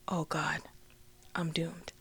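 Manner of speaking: hushed, resigned aside to oneself; dread-filled murmur. Retold or imitated. Teen facing her sister's pregnancy test, hushed dread. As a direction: say it low and nearly whispered, sinking.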